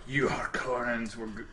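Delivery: a light Scottish brogue on a quote; mock Gurney in a Scottish brogue; Scottish accent. Quoting Gurney in a light Scottish accent. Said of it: "I did that accent".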